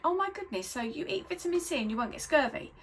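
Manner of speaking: high, gushing wonder; excited schoolgirl. Retold or imitated. Remembering her teenage self discovering dietetics, high excited gush.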